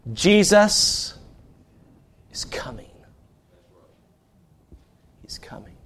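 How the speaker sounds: whispered, fading to breath; hushed announcement of the coming; hushed reveal. Acted. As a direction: let it drop to a whisper for awe. Dramatic sermon hush.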